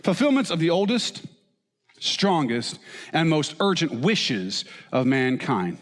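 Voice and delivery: lightly voiced professor, easing down and slowing; a hint of a lecturing Freud, drawn out at the end; mock Sigmund Freud voice. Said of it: "I don't have a German accent".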